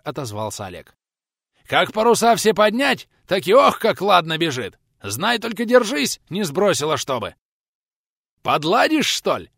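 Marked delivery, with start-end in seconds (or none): 1.7-9.5 higher, louder gleeful yelling; thrilled skipper hollering with delight; eager shout. A narrator's reading. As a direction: shout it full of reckless excitement. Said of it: "азартно прокричал мужчина".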